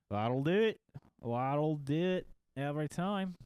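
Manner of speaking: a light put-on Scottish accent; lightly Scottish, with a satisfied nod in the voice; hint of a Scottish brogue, playful. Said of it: "I went Scottish there".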